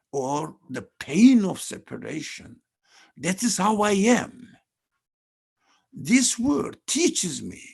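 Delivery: usual speaking voice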